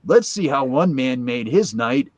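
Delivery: slow, solemn announcer voice; mock grand narrator, slowed down; Charlton Heston. Heston narrating the Bud Light ad, slow and solemn. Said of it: "Charlton Heston's doing this thing".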